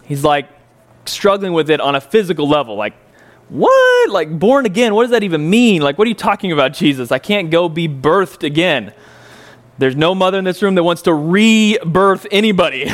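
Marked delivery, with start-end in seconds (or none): 3.5-8.9 confused man who can't make sense of it; baffled disbelief. Retold or imitated. Nicodemus baffled by born again.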